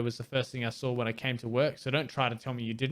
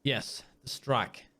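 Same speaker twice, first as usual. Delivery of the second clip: air quotes; much slower than usual. Acted. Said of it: "He makes little quotation marks with his fingers".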